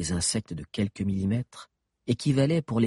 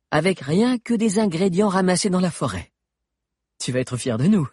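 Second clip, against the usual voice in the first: put-on higher youthful boy voice; teen boy voice; 9 semitones higher, 5 dB louder than usual. A narrator's reading. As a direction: voice an eager teenage boy. Valère's character voice.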